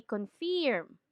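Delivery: "confirm" as kon-firm, i sound before r; Filipino mispronunciation. Shown as a demonstration. Teacher lists commonly mispronounced words, "confirm" as kon-feerm. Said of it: "sometimes we say".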